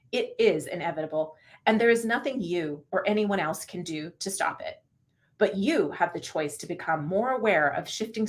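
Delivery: audiobook voice. Shown as a demonstration. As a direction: read it like a narrator giving the book some feeling. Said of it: "this is my audiobook voice".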